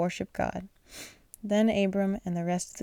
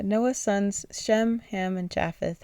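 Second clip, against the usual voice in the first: slow careful reading; slower than usual. Real, not acted. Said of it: "I am so sorry if I got those wrong".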